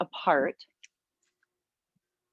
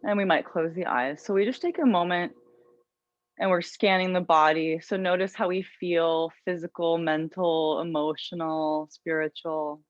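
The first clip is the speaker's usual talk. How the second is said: calm, unhurried yoga teacher voice; guided meditation. Real, not acted. Yoga teacher settling students into an intention, guided meditation. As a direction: guide them gently inward, leaving long pauses.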